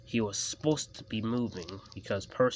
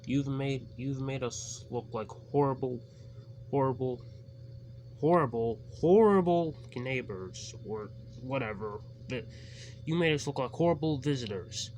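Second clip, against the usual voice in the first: scolding driver; 4 semitones higher than usual. A narrator's reading.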